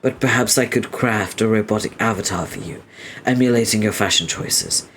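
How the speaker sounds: formal, courteous greeting; polite engineer. Acted. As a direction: offer help with stiff courtesy. Voices puzzled engineer character.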